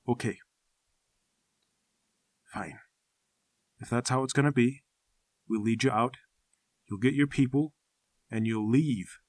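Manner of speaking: a tired recluse giving in; a hint of a grim hermit; weary old hermit. Narrator voices mountain man.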